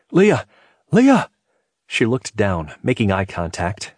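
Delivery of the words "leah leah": loud, high calling, rising on the repeat; shouted. A narrator's reading. Man calls up to woman at the open window, shouting. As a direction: shout up to get someone's attention. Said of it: "He shouted back, trying to gain her attention".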